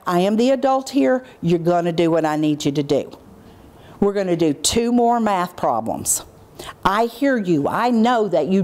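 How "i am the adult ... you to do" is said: dropped adult voice. Shown as a demonstration. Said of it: "But you drop into that".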